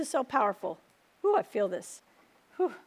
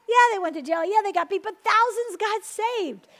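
fervent preaching; 6 semitones higher, 6 dB louder than usual. Real, not acted. Preacher building to a climax.

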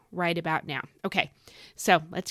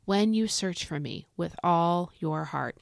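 scripture reading. Acted. Reads scripture aloud.

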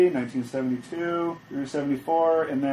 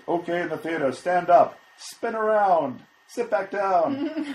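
hypnotist voice; 5 semitones higher, slower than usual. Retold or imitated. Mock hypnotist theater instructions.

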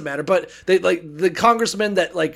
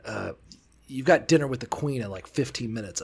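much lower and softer, awkward mumble; awkward eunuch; 6 semitones lower, 7 dB quieter than usual. Retold or imitated. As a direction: mumble it like an uneasy messenger. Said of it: "He's like".

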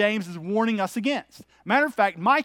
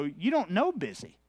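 mock scoff; 5 dB quieter than usual. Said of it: "oftentimes I wanna go".

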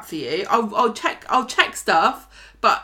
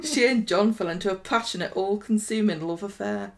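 put-on northern accent. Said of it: "Can I do it in a northern accent?".

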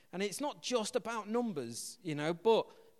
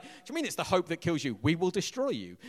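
mock American; 4 dB louder than usual. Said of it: "So, like".

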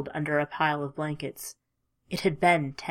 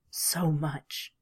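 tender whisper; 4 dB quieter than usual. Acted. Farewell to fading lover.

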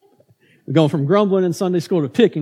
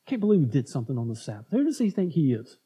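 grumbling mutter; 4 semitones lower, 5 dB quieter, faster than usual. Retold or imitated. Grumbling crowd voice.

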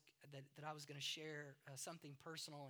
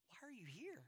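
soft breathy whisper of God's question; hushed gentle whisper; 7 semitones higher, 5 dB quieter than usual. Acted. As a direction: whisper it close to the ear.

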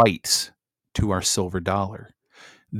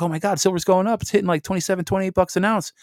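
imitating panicked buyers, pitched much higher; mock freaking out; 10 semitones higher, faster than usual. Imitating people freaking out over silver prices, high mock panic. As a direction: play the panicky crowd, voice shooting up. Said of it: "People were freaking out".

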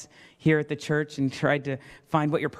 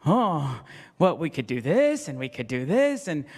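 a dithering doctor losing it as the patient bleeds; flustered indecision; 5 semitones higher than usual. Retold or imitated. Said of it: "I'd be".

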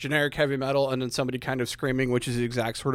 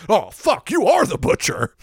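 much higher, louder shocked gasp of belief; high startled realization; 10 semitones higher, 7 dB louder than usual. Acted. The booze dealer realizing who he faces, high shocked awe. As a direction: caught out and suddenly scared.

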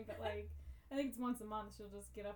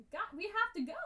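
sharp urgent call to the dog; impatient call; 7 semitones higher, 6 dB louder, faster than usual. Retold or imitated. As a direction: call out, louder, hurry him up. Urging dog to leave.

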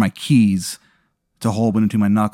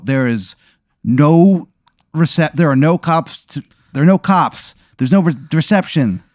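panicked, louder and higher; freaking out; 5 semitones higher, 4 dB louder than usual. Acted. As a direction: voice climbing in panic at no signal. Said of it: "I kind of freak out a little bit".

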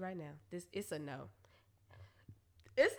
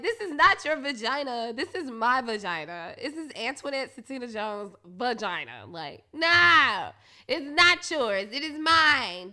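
mock angry; 6 dB louder than usual. Angry retold rant at partner.

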